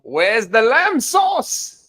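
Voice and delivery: loud, high, drawn-out mock chef yell; Gordon Ramsay. Ramsay fan quotes the chef's lamb sauce line, loud mock yell. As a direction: bellow it slowly like an irate chef. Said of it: "Gordon Ramsay".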